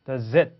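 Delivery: "Does it" joined as da-zit; linking demo. Shown as a demonstration. Teacher showing learners the link, "Does it" as da-zit. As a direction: carry the Z of "Does" into "it". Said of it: "zit 이렇게 됩니다".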